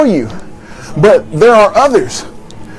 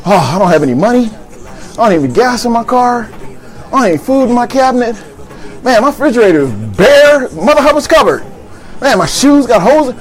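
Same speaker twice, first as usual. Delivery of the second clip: whiny complaining; 2 semitones higher than usual. Retold or imitated. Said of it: "the woes of life".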